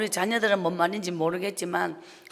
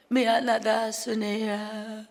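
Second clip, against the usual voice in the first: mother apologizing; slower than usual. Retold or imitated. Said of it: "이 말을 하지 않고".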